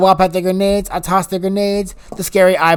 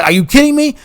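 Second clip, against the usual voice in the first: higher exasperated disbelief; 9 semitones higher, 5 dB louder than usual. Retold or imitated. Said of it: "I'm like".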